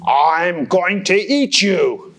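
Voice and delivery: slow, lightly voiced troll threat; threatening troll. Troll threatening the middle goat, slow. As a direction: savour the threat.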